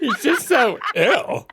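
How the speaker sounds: high, slow, drawn-out whine; Valley Girl whine. Pretend. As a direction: stretch out "so ill" like a spoiled teen. Valley Girl parody line.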